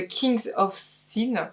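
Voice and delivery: slow title read with a light English accent; lightly put-on English accent, taken slowly. Shown as a demonstration. Naming the sequel title to viewers, in a mild English accent. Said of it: "avec mon accent anglais encore".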